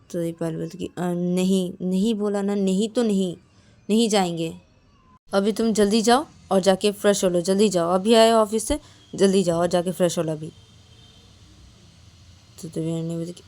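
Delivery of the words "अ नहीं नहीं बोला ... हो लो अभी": louder, firm orders; bossy insistence. Acted. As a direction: shoo her off to freshen up. Payal insists, sends her off.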